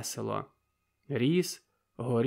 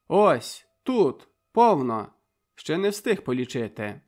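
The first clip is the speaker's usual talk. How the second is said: boastful; 2 semitones higher, 7 dB louder than usual. A narrator's reading. Slapping his pockets.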